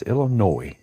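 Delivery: ILLINOIS ending "-noy", S silent; high, punched ILLINOIS with a silent S. Shown as a demonstration. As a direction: drop the final S of ILLINOIS, rhyme with boy. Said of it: "No S".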